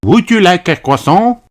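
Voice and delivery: high little donkey voice offering; Delphine voice. A narrator's reading. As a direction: offer it sweetly like a French girl. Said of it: "asked Delphine".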